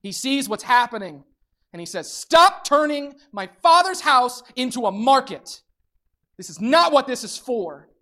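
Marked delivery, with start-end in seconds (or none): 2.1-7.9 raised, forceful proclamation; a firm raised rebuke to the congregation; preacher's yell. Shown as a demonstration. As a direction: call it out like Jesus in the temple. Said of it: "I'm gonna yell it as well".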